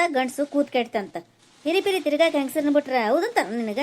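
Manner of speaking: indignant mother's loud telling-off; scolding rant. Acted. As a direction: scold him loudly, fed up. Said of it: "ಹಿಂಗ್ ಒದರ್ಬೇಡ".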